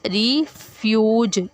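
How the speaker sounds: "रिफ्यूज" said slowly, syllable by syllable; sounded-out word. Shown as a demonstration. Teacher showing the sound in the word, "रिफ्यूज" slowly sounded out. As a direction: stretch "रिफ्यूज" into two slow parts. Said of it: "ये ज की sound है".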